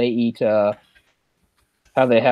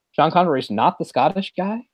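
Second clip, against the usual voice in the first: higher-pitched, baffled question; mock incredulity; 5 semitones higher than usual. Podcaster baffled by Highlander's casting, mock incredulous. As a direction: query it in feigned disbelief.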